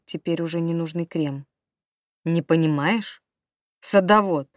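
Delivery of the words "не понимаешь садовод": loud sneer, spitting out Садовод; husband mocks wife's job, loud and scornful; scornful snort. A narrator's reading. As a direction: snort Садовод at her in disgust. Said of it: "фыркнул он".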